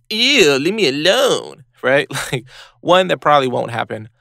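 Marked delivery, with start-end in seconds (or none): 0.1-1.6 higher, loud then slow, sneering rejection; disgusted brush-off. Retold or imitated. A stranger rejects someone joining the group, disgusted. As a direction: push the stranger away with scorn. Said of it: "looks and goes".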